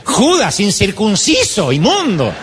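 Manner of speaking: hammed-up churchy name-calling; mock insults. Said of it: "Se ve que ella le decía". (esposa lanzando insultos cristianos en broma)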